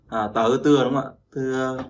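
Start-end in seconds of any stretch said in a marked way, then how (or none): 1.3-1.8 "Tưa" with a gentle t and no puff; light unaspirated t. Shown as a demonstration. Teacher modelling for learners, "Tưa" gently unaspirated. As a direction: let the t of "Tưa" go lightly, without breath. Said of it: "không bật hơi nhá, nhẹ nhàng thôi".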